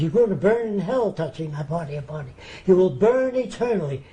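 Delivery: lightly voiced scolding Baptist mother, rising at the end; old-time Baptist mother. Baptist mother warning her young son of hell, lightly imitated scolding. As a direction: imitate a mother's hellfire warning, building slightly. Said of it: "his mother was an old-time Baptist".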